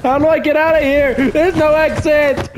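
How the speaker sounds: high panicked shout; scared horror game streamer. Real, not acted. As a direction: cry out trapped. Trapped, panicking.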